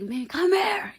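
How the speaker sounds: high, loud call across the room; guy yelling across the club; retold yell. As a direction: holler her over. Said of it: "yelling across the motherfucking Tootsies".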